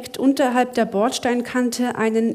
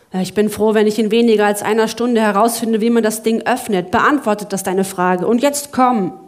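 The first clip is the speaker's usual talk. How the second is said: irritated; 5 dB louder than usual. Acted. Lachlan snaps back, rushing.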